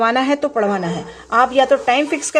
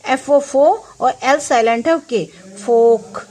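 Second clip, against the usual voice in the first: slow sounding out. Shown as a demonstration. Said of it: "और फॉक में हम कैसे पढ़ेंगे".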